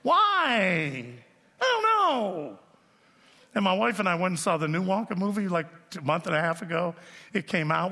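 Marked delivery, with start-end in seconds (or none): 0.0-2.6 high, hammed-up childish wail; mock crying. Preacher mimics himself at seven at the movie, mock crying. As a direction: wail it like a bawling child, played for laughs. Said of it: "I started crying".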